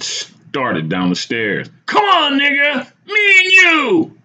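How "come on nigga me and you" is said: high, screamed challenge; shouting. A narrator's reading. Madman challenges narrator from the stairs, shouting. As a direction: shout a challenge, stretching the end. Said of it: "he shouted".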